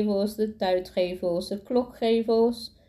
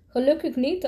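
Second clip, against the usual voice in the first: snappy, pitched up high; sharp retort; 6 semitones higher than usual. A narrator's reading. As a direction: snap it back at him. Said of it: "antwoordde de vrouw vinnig". (vinnig, hoog kortaf geantwoord)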